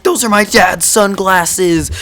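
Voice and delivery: slow, high mock outburst; freaking out. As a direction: imitate an overwrought kid, stretching each word. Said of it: "he was freaking out".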